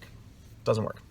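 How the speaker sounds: slow, soft, whispered repeat of It doesn't work. Real, not acted. Speaker repeating his verdict to sales trainees, in a slow whisper. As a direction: breathe it out slowly as a quiet aside.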